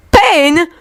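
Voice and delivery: high, rising disbelief; can't believe what he heard; incredulous. Acted. Victor echoes Yuri in disbelief.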